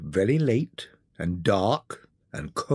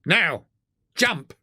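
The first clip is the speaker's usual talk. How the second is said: calling out; 6 semitones higher than usual. A narrator's reading. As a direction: shout the signal. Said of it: "he called out".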